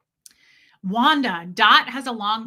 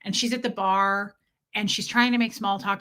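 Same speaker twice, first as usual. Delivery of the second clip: ordinary talk, nothing marked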